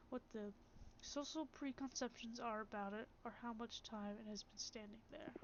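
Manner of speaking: measured, even reading of game text; calm narrator reading a philosophical passage; story narration. A narrator's reading. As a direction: read it like the opening of a fable. Streamer reads game narration.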